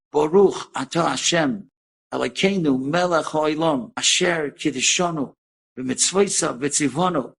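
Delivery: slow, measured Hebrew prayer; reciting a blessing. Retold or imitated. Old mother saying the candle blessing from memory, slowly reciting. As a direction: recite it deliberately, phrase by phrase. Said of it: "she starts saying in perfect Hebrew".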